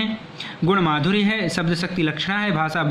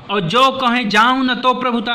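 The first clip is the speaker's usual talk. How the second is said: emphatic recital; 6 semitones higher, 5 dB louder than usual. Acted. Verse line voiced as the wife.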